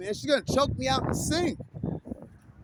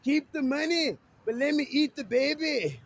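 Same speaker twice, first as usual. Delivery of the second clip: Fat Bastard; 3 semitones higher than usual. Retold or imitated. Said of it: "Fat Bastard".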